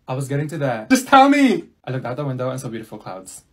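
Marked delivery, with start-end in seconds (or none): 0.9-1.7 louder, higher, fed up; impatient demand. Acted. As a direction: push her to get to it. Impatient friend demands the point.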